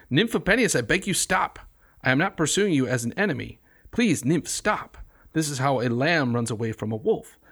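earnest verse reading with a lightly voiced pleading god; reading a poem aloud. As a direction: read Apollo's plea with some feeling. Reads Apollo's plea aloud.

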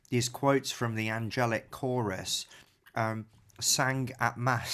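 chewing while speaking; slow, through a mouthful of chocolate; mouth full. Real, not acted. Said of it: "I'm eating a chocolate bar".

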